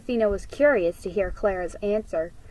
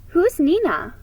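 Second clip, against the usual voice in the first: puzzled; 8 semitones higher, 5 dB louder than usual. A narrator's reading. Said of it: "Tia Dolores looked puzzled".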